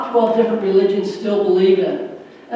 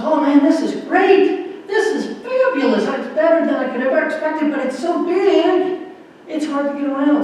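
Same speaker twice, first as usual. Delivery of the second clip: higher, lightly voiced happy little mouse; delighted mouse; 4 semitones higher than usual. Mouse telling Saint Peter about heaven, mildly delighted. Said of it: "the little mouse says".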